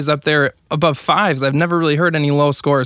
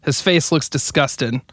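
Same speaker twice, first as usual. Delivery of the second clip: frantic mock sports commentary. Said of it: "give him a little play-by-play".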